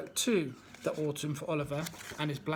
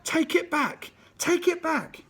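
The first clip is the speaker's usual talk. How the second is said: far higher, full-out raging bellow; 11 semitones higher, 4 dB louder, slower than usual. Acted. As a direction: bellow it, lost in a red fog of rage. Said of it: "went on bellowing".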